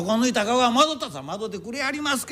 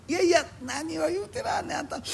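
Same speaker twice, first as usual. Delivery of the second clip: higher, raised objection; heated protest; 7 semitones higher, 4 dB quieter than usual. Acted. Drunk argues with his friend about sumo: raised protest. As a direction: shout down your friend's opinion.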